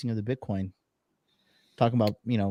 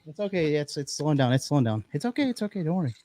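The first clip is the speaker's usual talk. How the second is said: soothing the dog; 2 semitones higher, faster than usual. Real, not acted. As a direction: tell the dog it's over, gently. Soothing dog as quake fades.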